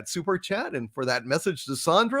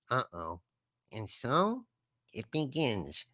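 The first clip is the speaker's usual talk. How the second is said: mock ominous; 4 semitones lower, 10 dB quieter than usual. Dreading Beth's incoming joke.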